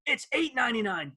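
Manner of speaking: high, punchy announcer hype; obnoxious ad voice. Retold or imitated. Radio host mimics the record-store ad announcer, obnoxious. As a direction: bark the price like a pushy ad man. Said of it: "this obnoxious voice goes".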